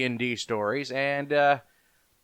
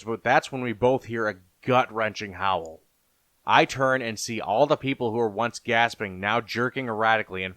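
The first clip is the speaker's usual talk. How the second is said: lower, measured storyteller voice; story narration; 4 semitones lower than usual. A narrator's reading. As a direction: narrate a fantasy horror tale. Narrates fantasy horror story.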